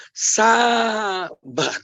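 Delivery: "Sabar" stretched long, then falling; drawn-out exhortation. Real, not acted. Preacher telling wives, "Sabar" long drawn out. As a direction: hold the first syllable of "Sabar" at length. Answers own call: be patient.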